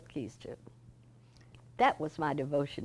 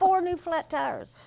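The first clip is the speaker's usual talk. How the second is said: retold easygoing boss voice, pitched much higher; cheerful Mister George; 10 semitones higher, 5 dB louder than usual. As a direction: brush off the apology lightly and brightly, as Mister George.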